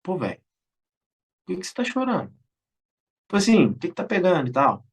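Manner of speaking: softened concern. Retold or imitated. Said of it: "percebeu que eu tava chorando".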